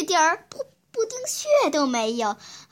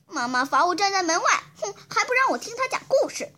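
tearful, higher and faster complaint; crying child; 6 semitones higher, faster than usual. Acted. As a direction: whine through tears. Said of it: "哭得更凶了".

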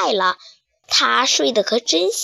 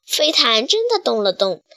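usual speaking voice

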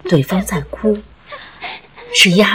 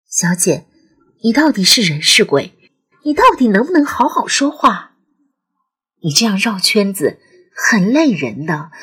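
near pleading. Acted. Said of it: "几乎要哀求了".

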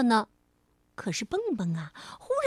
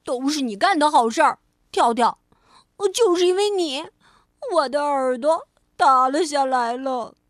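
accusing; 6 dB louder than usual. Acted. Rabbit blaming the frog.

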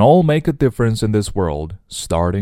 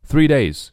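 "Three days" set apart, higher, then a stop; pause after; 5 semitones higher, 3 dB louder than usual. Shown as a demonstration. Teacher marking the break for learners after "Three days". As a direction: close off "days" before pausing. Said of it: "这里停顿".

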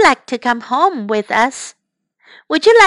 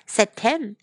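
lively storybook reading; bright picture-book narration; reading to children. Acted. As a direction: read it to the little ones with character voices.

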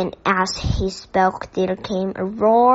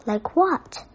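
suspicious; 5 semitones higher than usual. Acted. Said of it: "said Mister Curry suspiciously".

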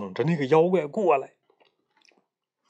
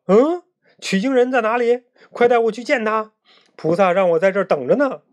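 higher, urgent questioning; eager pig demon; 6 semitones higher, 5 dB louder than usual. A narrator's reading. Pig demon learns of the pilgrim, eager high urgency. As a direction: pitch up and hurry toward the last words.

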